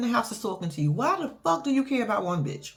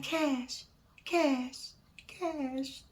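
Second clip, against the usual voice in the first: fading pleading calls; 2 semitones higher, 10 dB quieter, much slower than usual. Retold or imitated. Calling after a hung-up phone.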